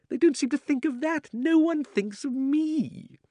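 high, whiny, self-pitying voice; whining old man. Acted. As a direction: whine like a spoiled old man. Uncle Andrew's selfish whining.

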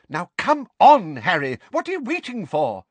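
high, impatient urging; furious. A narrator's reading. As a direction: hurry the boy along crossly. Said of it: "said Missus Figg furiously".

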